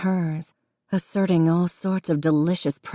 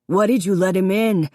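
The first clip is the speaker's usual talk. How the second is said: louder, accusing yell; 2 semitones higher, 4 dB louder than usual. A narrator's reading. Davy yelling at Jessica, accusing. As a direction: yell it at your sister. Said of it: "Davy yelled".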